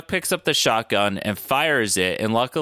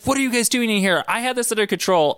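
exasperated retort; 9 semitones higher, faster than usual. Retold or imitated. Retelling Caitlin's annoyed surprise.

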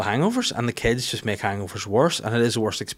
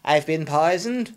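slow, a touch higher, weak mock voice; imitating poisoned spy; 6 semitones higher, slower than usual. Comic imitating the poisoned spy, slow and weak. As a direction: gasp it out like a dying man. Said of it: "him where he was, like".

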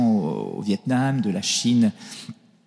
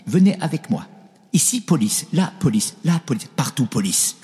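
put-on Chinese accent; 4 semitones higher than usual. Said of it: "petit accent chinois".

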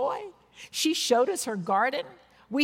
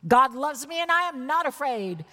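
"God loves me and I am not afraid" raised, with weight on "I am not afraid"; varied emphasis; 4 semitones higher than usual. Shown as a demonstration. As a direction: declare it boldly, leaning on "not afraid". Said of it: "with emphasis on different words".

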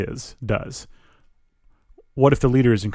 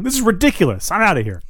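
rising in outrage, higher; 9 semitones higher, faster than usual. Acted. Kid locked in, protests to HR pair, rising higher. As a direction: pitch jumps up, indignant. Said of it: "your voice rising".

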